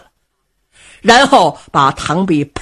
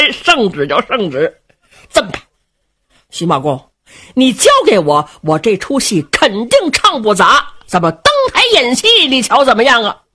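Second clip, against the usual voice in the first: brash jovial rogue; 3 semitones higher than usual. Acted. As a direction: boom it out like a merry rascal king who doesn't care. Cheng Yaojin voiced in story.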